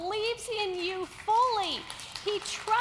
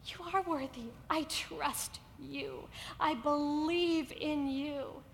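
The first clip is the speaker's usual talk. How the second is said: tender God; 4 semitones lower, slower than usual. Acted. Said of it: "he says".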